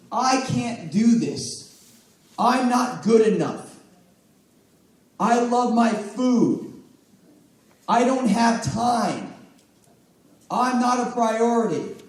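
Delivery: slow, heavy, resigned lines; mock client moaning about her limits; defeated self-talk. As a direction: drag each excuse out like you've given up.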